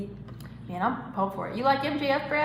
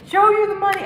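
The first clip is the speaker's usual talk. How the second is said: much higher, louder hammed-up bellow; Shane McMahon entrance yell; 11 semitones higher, 8 dB louder, faster than usual. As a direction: scream it like a wrestling entrance. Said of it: "thought of Shane McMahon".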